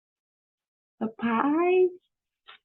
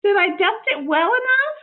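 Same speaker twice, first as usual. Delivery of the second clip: high, bright-eyed maid voice, lightly raised; eager, innocent housekeeper talking to herself; Amelia Bedelia voice; 9 dB louder than usual. Acted.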